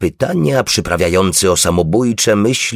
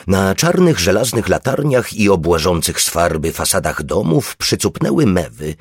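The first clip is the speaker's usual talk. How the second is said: ordinary delivery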